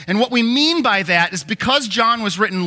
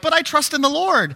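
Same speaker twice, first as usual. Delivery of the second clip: unnatural trust; 8 semitones higher than usual. Retold or imitated. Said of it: "they often go to this really unnatural".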